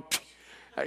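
short imitated spit; spitting sound. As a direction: mime a quick spit with the lips. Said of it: "the heavens and the earth going".

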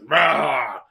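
lightly bellowed mock beast roar; Sasquatch roar. Sasquatch slowly eating hot dogs, mock roaring.

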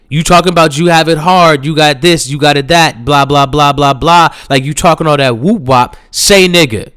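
challenging. Retold or imitated. Colin confronting Miles's complaints, challenging. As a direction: rattle it off, then land the dare. Acted rant in retold argument.

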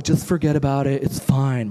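an odd put-on mom voice that misses; mom voice, wrong take. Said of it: "My mom doesn't talk like that".

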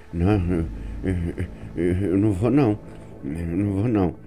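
soft, halting, stammered refusal; a scared boy who won't get out. Retold or imitated. Frei Beck refuses seu Ademar, softly stammering in fear.

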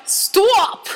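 high, drawn-out mock protest; hammed-up high exclamation; imitating mother. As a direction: mimic her objecting in a high voice. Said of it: "she was like".

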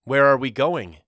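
bursting with eagerness to know; excited. A narrator's reading. Walter running after Mama asking where they go, excited. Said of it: "Walter asked excitedly".

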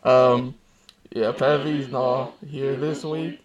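slow talk through a toy helmet; helmet voice changer. Real, not acted. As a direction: keep talking through the voice-changer mask. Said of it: "it's awful".

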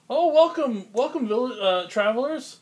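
high, bright welcoming voice up top; cheerful penguin villager. Acted. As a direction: greet the travelers in a high penguin voice. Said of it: "they're like".

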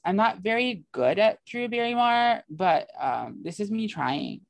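half-hearted celebrity imitation; a light, badly faked actress voice; Drew Barrymore. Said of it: "are we doing Drew Barrymore accents".

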